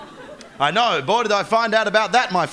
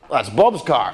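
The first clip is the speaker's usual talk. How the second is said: low, mock West Country villager; lightly put-on rural West Country accent; 7 semitones lower, slower than usual. Villager spotting a stolen car, mock West Country accent. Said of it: "shit attempt at the accent".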